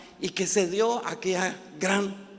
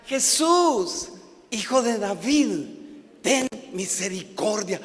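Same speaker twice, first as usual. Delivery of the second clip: mild raised cry to Jesus. Acted. Blind man begging Jesus for mercy, crying out. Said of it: "qué fue lo que gritó el ciego".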